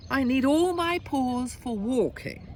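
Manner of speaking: objecting tiger. Acted. Tiger objects to umbrella offer.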